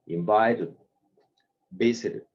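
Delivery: invited, visited with the last vowel barely said; swallowed ending. Shown as a demonstration. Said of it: "como si te fueras a comer esa letra".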